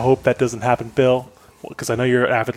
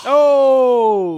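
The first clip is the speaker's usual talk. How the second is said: high, loud shocked "Oh!"; a sudden stunned outburst; surprised gasp; 10 semitones higher, 7 dB louder than usual. Real, not acted. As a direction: react like it's big news. Shocked at celebrity pick.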